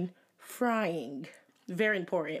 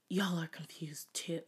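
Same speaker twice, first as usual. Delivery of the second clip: whispering; 3 semitones lower, 5 dB quieter, slower than usual. Real, not acted. Joking aside to listeners.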